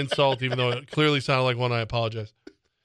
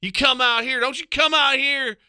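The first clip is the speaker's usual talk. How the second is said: mock nascar fan heckler; 9 semitones higher, slower than usual. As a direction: heckle The Rock like a rowdy race fan.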